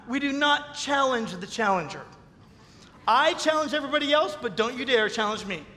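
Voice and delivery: a hint of a bristling know-it-all; mock challenger. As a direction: play the defiant challenger lightly. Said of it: "this is how they respond".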